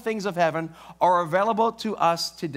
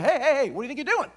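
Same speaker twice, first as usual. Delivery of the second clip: lightly voiced store owner; 7 semitones higher, much faster than usual. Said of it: "the owner of the store goes".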